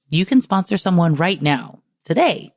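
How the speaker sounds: infomercial voice. Acted. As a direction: sell it like a TV infomercial. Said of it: "I sound like an infomercial".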